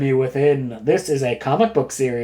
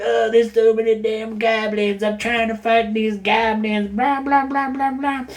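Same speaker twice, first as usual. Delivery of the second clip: raised, put-on cartoon monster voice; goofy monster grumble; 5 semitones higher than usual. Venom complaining while fighting goblins, goofy monster grumble. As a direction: grumble it higher, dissolving into blahs.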